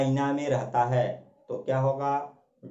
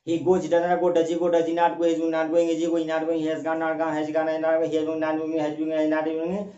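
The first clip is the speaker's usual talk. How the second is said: rapid-fire recitation; much slower than usual. Shown as a demonstration. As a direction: rattle off every tense form in one breath. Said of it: "अगर इतना speed से आपका mind". (तेज़ी से एक साँस में बोलना)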